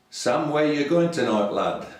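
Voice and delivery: a touch of broad Yorkshire dad, calling to his son; lightly voiced Yorkshire father; Yorkshire accent. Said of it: "See, I've still got the accent".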